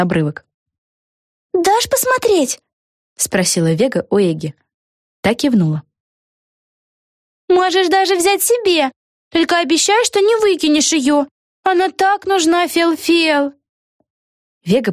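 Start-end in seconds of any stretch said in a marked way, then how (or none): 1.5-2.6 very high, slow request; high, eager; eager girl. A narrator's reading. Vega asks. 7.5-13.5 very high, slow cheerful greeting; very high, drawn-out hello; cheery witch. A narrator's reading. Eggi offers.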